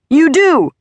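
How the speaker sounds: high, loud, furious retort; shouting. A narrator's reading. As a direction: shout back in a rage. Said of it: "Dad shouted".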